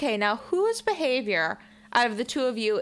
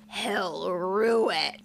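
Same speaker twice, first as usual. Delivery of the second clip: slow, sly and sassy; mischievous; 3 semitones lower, much slower than usual. Retold or imitated. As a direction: savor each word with sass. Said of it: "so much sauce on that delivery".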